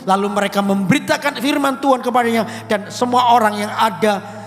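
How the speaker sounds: loud, emphatic Bible reading; scripture reading. Acted. Preacher reading Acts to the church, loud and emphatic. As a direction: proclaim the verses to the congregation. Reads Bible passage aloud.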